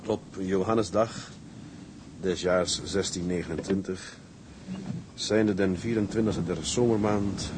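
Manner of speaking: put-on slow, measured reading of an old logbook; reading aloud. A son reads the old logbook aloud, slow and measured. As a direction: read the old ship's log to the sick woman.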